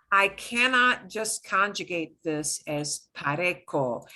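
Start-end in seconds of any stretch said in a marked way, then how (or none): 3.2-4.1 "pareco" with k in place of s; wrongly conjugated "pareco", hard C; hard C sound. Shown as a demonstration. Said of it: "changes the sound of the C".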